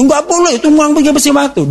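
high, fast, stern telling-off; scolding mother. Retold or imitated. Mother forbids her child's game, high fast scolding. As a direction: rattle off a strict no like a nagging mum.

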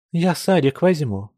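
plain reading voice

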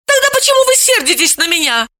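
surprised. A narrator's reading. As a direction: ask it genuinely taken aback. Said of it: "удивилась Вета".

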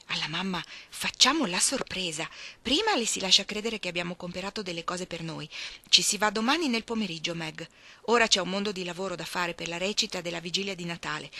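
lightly voiced Jo taking charge; bossy Jo. Joe plans the surprise. (Jo che organizza, a voce alta)

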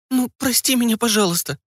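put-on high girl's plea with a sniffle; sniffling plea. Daughter pleading with her father, a touch of sniffling. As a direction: beg again, close to tears but holding it in. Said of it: "подозрительно шмыгнув носиком".

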